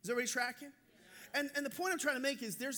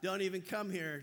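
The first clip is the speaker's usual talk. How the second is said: mock warning; 5 semitones lower than usual. Seated passenger warning others off.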